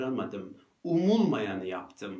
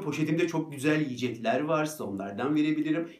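smiling offer; 3 semitones higher than usual. Retold or imitated. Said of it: "size böyle gülümsüyorum ya".

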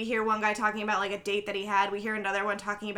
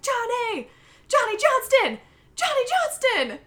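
much higher, louder frantic calling; frantic yelling; 14 semitones higher, 5 dB louder than usual. Retold or imitated. Coworker late for work yelling for Johnny, frantic. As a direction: call his name over and over, frantic. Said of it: "He's screaming".

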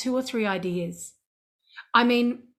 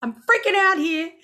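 retold panic; 3 semitones higher, 4 dB louder than usual. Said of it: "I was scared out of my wits".

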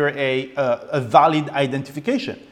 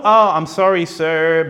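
mock polite apology; 4 dB louder than usual.

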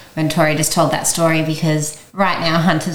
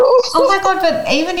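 overwhelmed, touched outburst; emotional exclamation. Real, not acted. Reacting to host crying.

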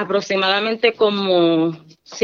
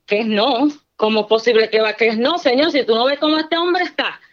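pleading protest; 3 semitones higher than usual. Retold or imitated. A wife pleading with God about her husband, rising desperate plea. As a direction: argue with the Lord, pitch climbing.

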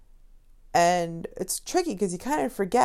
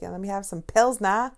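put-on Boston accent; 5 dB louder than usual. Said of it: "people from Connecticut don't have accents".

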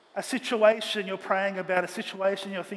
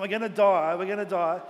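panicked servant; 5 dB louder than usual. Retold or imitated. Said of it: "the servant's freaking out".

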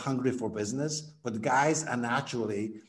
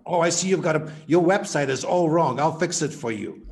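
pushy know-it-all; 3 semitones higher, 6 dB louder than usual. Retold or imitated. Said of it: "showing up and going like".

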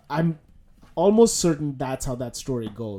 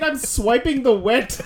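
laughing quote; 7 semitones higher, 6 dB louder, slower than usual. Retold or imitated. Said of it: "He said".

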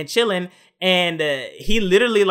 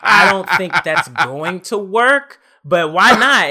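laughing through the retelling, louder; 7 dB louder, slower than usual. Real, not acted. Retelling the girl's answer, laughing and louder.

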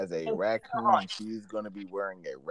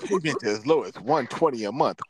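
mock car-ad read, lightly pitched up; commercial announcer; 3 semitones higher than usual. Imitating car commercials for friends, announcer read. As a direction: read it like a finance offer. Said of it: "how some of the commercials say".

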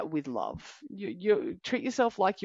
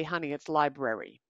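gentle parent correction; 3 semitones lower than usual. Retold or imitated. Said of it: "we as the parent need to correct that".

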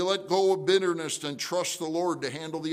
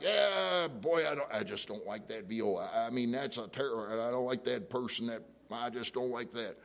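a grudging, soured grumble; grumbling resentment; 2 semitones lower, 3 dB quieter than usual. Retold or imitated. Pastor acting out resentment toward a church member, sour grumble. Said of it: "I'm all frustrated with them".

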